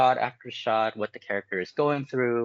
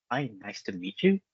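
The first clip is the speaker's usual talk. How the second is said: pitched higher, an awkward unwilling hello; a polite greeting hiding the thought I don't really know you; greeting with subtext; 6 semitones higher than usual. Shown as a demonstration. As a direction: say hi as if you don't want to be here. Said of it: "So it's different".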